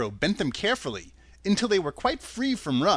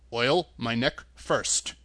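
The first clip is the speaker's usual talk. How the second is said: Tin Woodman voice; 4 semitones lower, slower than usual. Acted.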